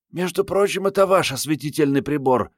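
put-on parry it archly in a high girlish voice; sly retort. A narrator's reading. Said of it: "парировала коварная копчага".

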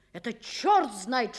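angry outburst. Acted. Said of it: "как крикнет".

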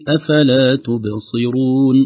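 slow recited phrase, the final vowel drawn out; slow recitation. Shown as a demonstration. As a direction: model the tajweed slowly. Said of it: "لو وقفنا عليها نقف عليها بالمد الطبيعي". (تلاوة بطيئة)

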